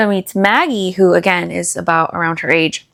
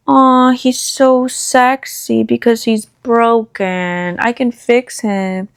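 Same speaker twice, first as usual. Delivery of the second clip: mock smitten; 3 semitones higher, slower than usual. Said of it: "gave me the vibe of".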